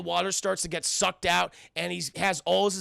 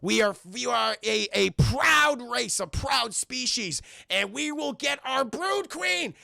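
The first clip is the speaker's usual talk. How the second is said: indignant mock proclamation, rising higher; pissed-off gnome leader; 4 semitones higher than usual. Jeff the gnome warns the escaping twins, mock indignation. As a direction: play a proud gnome declaring war, stretching key words. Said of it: "But Jeff's pissed".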